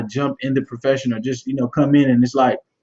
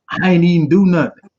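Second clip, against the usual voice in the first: put-on whiny kid; 4 dB louder than usual. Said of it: "heard a kid say".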